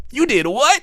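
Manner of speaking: high, loud "what?"; a startled partner asking what happened; shocked partner. Pretend. Startled partner reacting to the news, high and loud.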